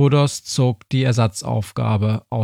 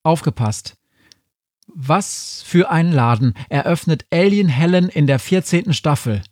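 higher, alert quiz host; lively higher-pitched question reading; quizmaster's question; 6 semitones higher than usual. Acted. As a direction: announce the question to the contestants.

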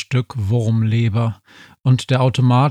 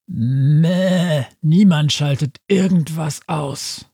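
higher bleating sheep voice, grumbled; grumbling sheep; 6 semitones higher, slower than usual. A narrator's reading. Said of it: "brummte das Schaf". (brummiges Schaf)

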